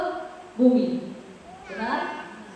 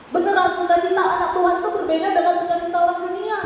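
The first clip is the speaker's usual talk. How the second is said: quick, higher-pitched sermon delivery; emphatic preaching; 6 semitones higher than usual. Real, not acted. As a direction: proclaim it with conviction. (khotbah bersemangat)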